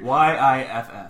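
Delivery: spelled out while laughing. Shown as a demonstration. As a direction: laugh through the letters. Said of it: "spelling again".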